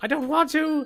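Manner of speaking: weak weenie character voice. Telling a story, the speaker voices a character in a weenie voice. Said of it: "He's so weenie now. I just want to use that voice".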